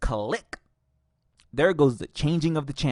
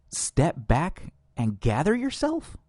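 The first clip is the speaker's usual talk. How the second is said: incredulous; 2 semitones higher, slower than usual. Real, not acted. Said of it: "incredulous repeat of the quote".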